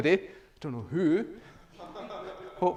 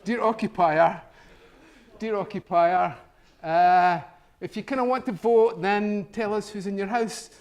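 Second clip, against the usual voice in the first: a hint of a pompous official reading out a letter; a lightly voiced bureaucrat, hammed up a little; mock official letter voice; 3 semitones higher, 4 dB louder than usual. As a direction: read it like a stuffy council notice, louder.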